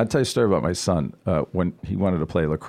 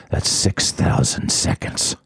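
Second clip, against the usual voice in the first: deadpan teacher; 2 semitones lower, slower than usual. Retold or imitated. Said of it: "he goes".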